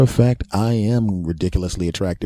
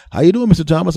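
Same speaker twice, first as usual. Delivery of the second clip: doctor voice; 7 semitones higher, 4 dB louder, faster than usual. Retold or imitated.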